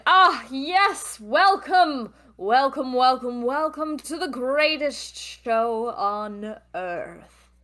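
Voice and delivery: booming showman welcome; ringmaster voice. Acted. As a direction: announce it like a circus ringmaster. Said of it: "you hear a loud voice ... the ringmaster".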